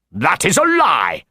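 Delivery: a restrained shout in character, not full volume; acted shout. A narrator's reading. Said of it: "he shouted".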